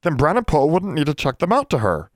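high, eager elf voice; squeaky, excited solution; enthusiastic elf. A narrator's reading. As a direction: chime in delighted as a little elf. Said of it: "said Bran enthusiastically".

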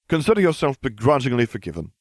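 magnanimous. Acted. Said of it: "I said magnanimously".

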